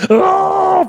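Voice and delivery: high, drawn-out imitated holler; imitated yell that wrecks the voice; mock yell. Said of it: "Fucking yelled that shit out".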